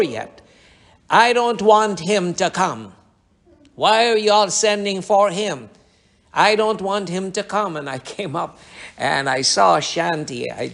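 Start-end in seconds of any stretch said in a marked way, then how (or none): 1.1-7.8 raised, higher voice of protest; lightly voiced demon objecting from another room; retold protest, pitched up; possessed girl's voice. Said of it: "a voice was coming out from the living room".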